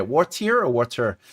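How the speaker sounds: "water" over-pronounced as "waw-teer", then "waw-ter"; trying out pronunciations. Shown as a demonstration. New Yorker hunting for the standard form, over-careful "water". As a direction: grope for a standard "water", T and R spelled out. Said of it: "oh, what is it?".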